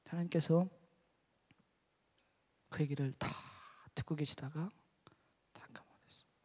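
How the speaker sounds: ordinary delivery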